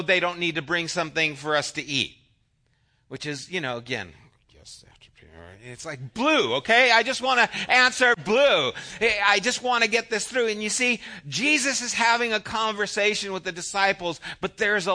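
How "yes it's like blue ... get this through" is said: preacher pleading for one-word answers; insistent. Real, not acted. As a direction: push it, exasperated and eager. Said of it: "pushing for simple answer".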